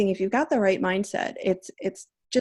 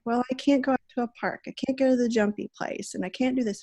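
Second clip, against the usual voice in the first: put-on complaining child; 3 semitones higher, 4 dB quieter, faster than usual. Daughter complaining voiced in story.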